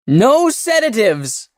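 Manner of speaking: very high, loud desperate scream. A narrator's reading. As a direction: scream it in panic. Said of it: "screamed Sail".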